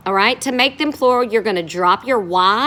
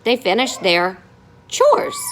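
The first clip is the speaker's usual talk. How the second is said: rising prompt. Shown as a demonstration. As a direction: lift up sharply on chores. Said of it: "What did they finish?".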